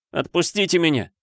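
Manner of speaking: high, pleading through sobs; sobbing plea. Acted. Boy sobs to his captor to let him go. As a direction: beg while sobbing. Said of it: "взмолился я, всхлипывая".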